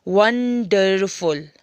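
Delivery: "वंडरफुल" stretched slowly into three beats, वं-डर-फुल; syllable by syllable. Shown as a demonstration. Teacher counting three syllables for pupils, "वंडरफुल" slowly broken up. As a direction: draw out each syllable of "वंडरफुल". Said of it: "इसमें तीन syllable है".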